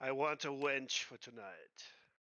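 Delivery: put-on accent from New York. Player voicing Smogus, asking the old woman at an inn counter, in New York accent. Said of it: "He says so in like the New Yorker accent".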